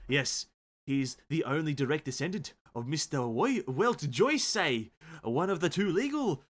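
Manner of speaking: put-on drawn-out stumbling accent; botched attempt at a British accent; failing accent. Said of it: "I can't do accents".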